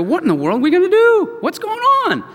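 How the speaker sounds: hammed-up sailors in a storm; panicked sailors. Sailors panicking in the storm on Jonah's boat, mock panic.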